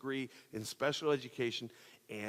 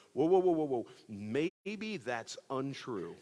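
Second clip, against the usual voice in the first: loud, rising alarmed whoas, then slowing right down; startled cry pulling up short; 3 semitones higher, 4 dB louder, slower than usual. Retold or imitated. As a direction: sound the alarm, then doubt creeps in. Experience shouting doubt at him.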